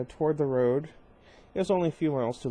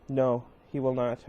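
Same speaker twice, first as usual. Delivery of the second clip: through gritted teeth. Acted. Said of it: "I said through my teeth".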